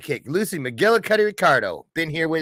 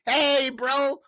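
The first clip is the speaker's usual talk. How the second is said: uncle voice; 13 semitones higher than usual. Pretend. Channeling Uncle Walter.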